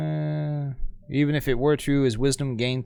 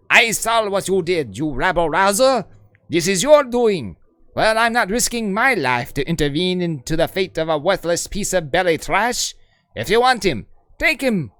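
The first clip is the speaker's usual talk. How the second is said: higher, louder accusing overseer; angry overseer; 3 semitones higher, 3 dB louder than usual. Acted. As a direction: point and accuse the troublemaker. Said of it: "that's not the accent I used".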